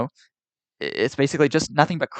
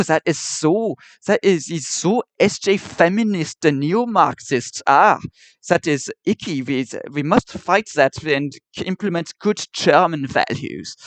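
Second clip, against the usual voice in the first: mock Nazi; 4 semitones higher, slower than usual. Mocking the Nazi's words.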